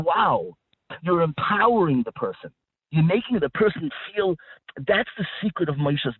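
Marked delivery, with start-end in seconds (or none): 0.0-0.5 "Wow" said in impressed admiration; light awed "Wow"; admiring wow. Shown as a demonstration. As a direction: Wow that lifts the person up. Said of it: "you're saying".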